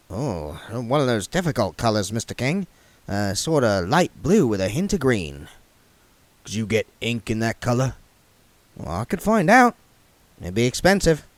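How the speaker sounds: a careful clerk asking the king; the clerk's voice. Acted. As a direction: clerk questioning the king politely.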